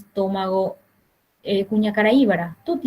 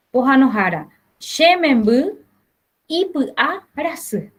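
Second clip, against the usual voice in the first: lightly voiced mother; 3 semitones higher than usual. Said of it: "Entonces va a ser".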